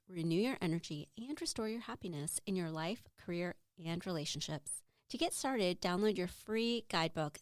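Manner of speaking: measured, softly delivered scripted intro; quiet, polished welcome read to listeners; podcast intro read. Acted. Host introducing her self-care podcast to listeners, intro read.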